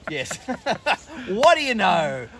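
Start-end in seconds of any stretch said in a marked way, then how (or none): 1.3-2.3 fake surprise. Sarcastic surprise.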